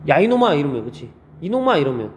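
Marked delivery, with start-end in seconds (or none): 0.1-0.5 higher, louder mock scolding; brief acted telling-off; derogatory call. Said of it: "낮잡아 부를 때 쓰는 말이잖아요". 1.4-1.8 derogatory call. Acted. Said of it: "낮잡아 부를 때 쓰는 말이잖아요".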